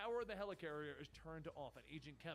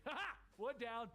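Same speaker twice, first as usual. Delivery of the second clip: mock laugh; 6 semitones higher, 4 dB louder than usual. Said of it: "Deadpool laughs to himself".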